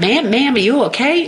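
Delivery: put-on heavy Southern accent. Retelling what a country boy said to her, in a deep Southern accent. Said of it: "in this like deep Southern accent".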